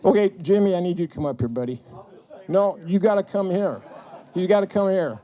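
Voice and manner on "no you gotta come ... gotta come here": laughing, coaxing. Real, not acted. Coaxing Jimmy up on stage.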